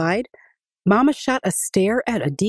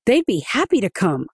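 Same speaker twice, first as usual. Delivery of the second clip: mild panting; 4 semitones higher than usual. A narrator's reading. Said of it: "Adika panted".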